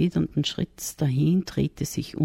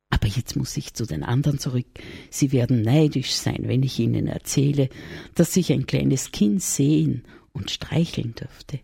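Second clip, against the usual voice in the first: eager shepherd. Acted. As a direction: hurry off, excited to tell others. Shepherd's voice in the story.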